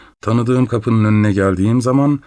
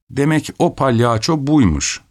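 muttered; 6 semitones higher than usual. A narrator's reading. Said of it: "diye söyleniyor".

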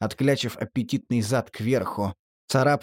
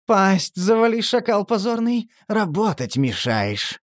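growling; 8 semitones higher, slower than usual. Acted. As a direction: growl it like a beast. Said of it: "прорычала она".

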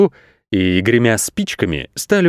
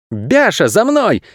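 higher urgent call; 8 semitones higher, slower than usual. Acted. Goat calling the sheep to run, higher call. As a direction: shout for her to follow. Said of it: "крикнул Матвей".

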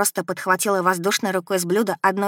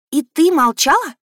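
потрясённо; 8 semitones higher, 6 dB louder than usual. Acted. Дочь потрясена молчанием матери.

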